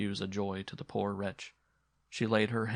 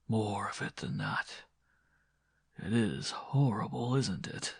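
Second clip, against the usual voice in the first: insistent, menacing lover; 3 dB quieter than usual. Acted. Man keeps the woman close, softly menacing. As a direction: press for more in a soft, breath-heavy voice.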